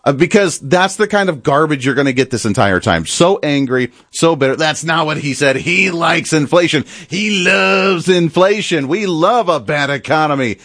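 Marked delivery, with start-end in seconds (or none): 4.5-10.6 sarcastic, drawn-out mockery of the hosts; slow, sneering parody of the hosts; mocking hosts. Pundit mocking the hosts' claim, slow and sarcastic. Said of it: "Said nobody ever".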